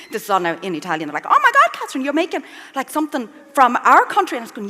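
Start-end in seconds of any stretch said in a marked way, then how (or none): 1.3-4.4 high-pitched imitation of amazed in-laws; impressed relatives. Relatives amazed she makes their local pesto, imitated high excitement. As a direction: start high and loud, mock astonishment. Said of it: "they were so impressed".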